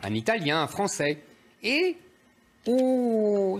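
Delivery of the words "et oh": high-pitched feigned gasp of discovery; mock astonishment. Commentator mocking a newspaper's missing question, mock astonishment. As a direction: play up a fake shocked "oh".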